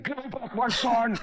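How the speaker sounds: hammed-up movie-hero cry through laughter; Liam Neeson parody. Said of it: "He's like".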